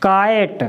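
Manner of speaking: काइट said as kite with a long ai; काइट pronounced with the ai sound; model word. Shown as a demonstration. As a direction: give काइट like the English kite. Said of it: "क्या हो जाएगा उच्चारण".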